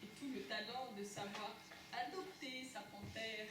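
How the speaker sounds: nature documentary. Acted. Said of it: "à la façon de documentaire animalier".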